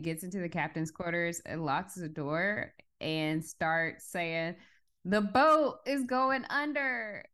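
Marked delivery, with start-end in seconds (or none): 5.0-7.2 raised-pitch, drawn-out retold warning; mock alarm announcement. Dimitri locked in captain's quarters, mock warning. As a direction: lightly imitate a man announcing disaster.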